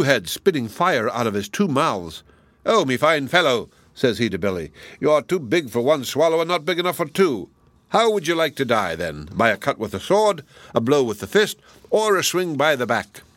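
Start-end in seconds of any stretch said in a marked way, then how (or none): 2.6-13.2 giant taunting. Acted.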